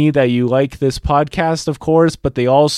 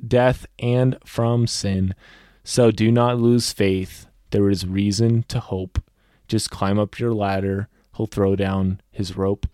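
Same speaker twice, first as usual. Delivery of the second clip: softening ending; 4 semitones lower than usual. Acted. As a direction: let the ending settle gently. Poem's closing lines.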